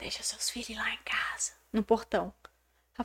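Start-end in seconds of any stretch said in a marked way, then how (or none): 0.0-1.5 very soft, breathy whispered aside. Retelling what a neighbour said at the gate: imitating someone speaking very softly. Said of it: "veio falando bem baixinho assim".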